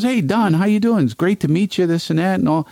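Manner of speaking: high-pitched, effusive mock greeting; hearty greeting. A singer greets the comedian at dinner, hammed-up hearty hello.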